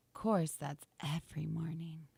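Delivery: breathy whisper aside. Real, not acted. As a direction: whisper it as a joke.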